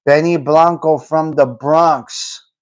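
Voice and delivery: slow, drawn-out tough-guy line; movie gangster quote. Retold or imitated. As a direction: savour each word like the film's gangster. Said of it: "Good scene right there".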